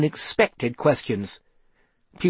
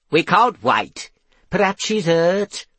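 higher, distressed wail; 4 semitones higher, 3 dB louder than usual. A narrator's reading. Mother fears her daughter is hurt, wailing. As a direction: wail with worry. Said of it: "wailed Norrie".

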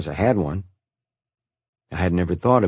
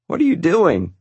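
laughing; 10 semitones higher, 4 dB louder than usual. A narrator's reading. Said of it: "with laughter in his voice".

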